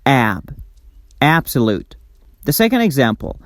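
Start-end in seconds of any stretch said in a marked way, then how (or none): 0.0-1.9 AB alone, then Absolute with AB stressed; teacher's demo of Absolute stressed on AB; stress on first syllable. Shown as a demonstration. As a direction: isolate AB, then say Absolute falling away from it. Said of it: "It's tensed and pronounced louder".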